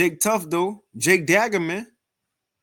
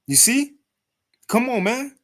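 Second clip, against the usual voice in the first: higher, mock-soft teasing; 7 semitones higher, 3 dB louder than usual. Mocking the soft-sounding commenter, pitched higher. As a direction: tease him for coming off soft. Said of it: "I'm talking a little soft in that tone".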